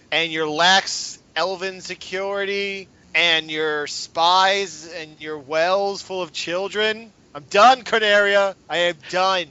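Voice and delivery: slow, fed-up list of grievances; fed-up yell. Acted. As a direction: spit out each complaint, done with them all. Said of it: "I'm gonna yell out".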